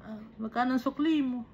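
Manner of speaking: lightly imitated Bulacan lilt from Kalumpit; quick question in a Kalumpit punto; Kalumpit accent. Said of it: "accent yun ng, ano, ng mga taga-Kalumpit". (puntong taga-Kalumpit)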